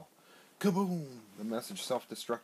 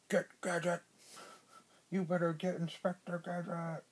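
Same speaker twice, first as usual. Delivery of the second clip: Doctor Claw voice; 8 semitones higher than usual. Acted. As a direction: bark the order like a cartoon villain. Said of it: "He talks like this".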